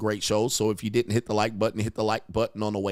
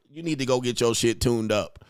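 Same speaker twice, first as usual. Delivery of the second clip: ordinary talk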